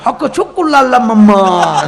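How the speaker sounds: slow, laughing made-up African talk; mock African gibberish. Storyteller mimics an African visitor with laughing gibberish. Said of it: "આફ્રિકાના આવેલા".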